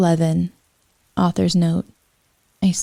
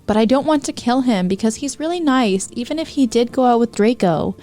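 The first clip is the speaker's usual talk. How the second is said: put-on higher, upset teen voice; distressed girl; 5 semitones higher than usual. Ebony tells the band about Voldemort, higher upset voice. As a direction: pour it out to the band. Ebony tearfully explains to friends.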